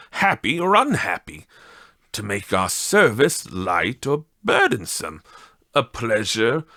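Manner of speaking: put-on a mild heat in old Scrooge's defence; heated, speaking like his former self. Scrooge pleading Fezziwig's case to the Spirit, mildly heated. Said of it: "heated by the remark".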